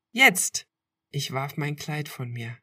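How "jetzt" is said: high, loud playful shout; excited shout. A narrator's reading. Girlfriend shouting a dare to swim now. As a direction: call it out, daring.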